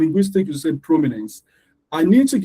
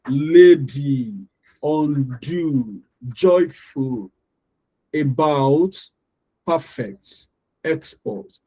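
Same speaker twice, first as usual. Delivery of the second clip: "lady", "undo", "joyful" each in two drawn-out beats; both syllables emphasized; much slower than usual. Shown as a demonstration. Teacher listing words so learners can see, both syllables emphasized. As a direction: give both halves of "about", "perfect", "export" full weight. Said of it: "how I can emphasize them".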